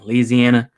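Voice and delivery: "Louisiana" said as "Leeziana"; local pronunciation. Shown as a demonstration. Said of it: "You gotta pronounce it right".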